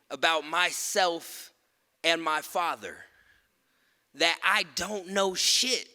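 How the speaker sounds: measured, rhythmic spoken word delivery; poem performance. Acted. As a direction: land each line like a commandment.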